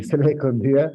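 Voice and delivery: se le escondía said through a chuckle; laughing repetition. Acted. Telling how the helper kept hiding, se le escondía with a laugh. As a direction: laugh as you repeat se le escondía.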